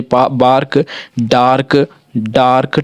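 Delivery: बार्क, डार्क with a long आ; teacher leading repetition; read-along model. Shown as a demonstration. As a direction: say them slowly for the class to repeat. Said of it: "मेरे साथ पढ़िए".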